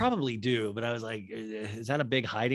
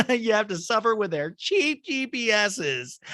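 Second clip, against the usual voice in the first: mock high Kyle voice; 9 semitones higher, slower than usual. Kyle's joke voiced.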